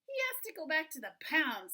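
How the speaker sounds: loud, high-starting, emphatic order; father's decree. A narrator's reading. Father sentencing the dog to the pound, loud and firm. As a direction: lay down the law as father. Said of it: "said Father".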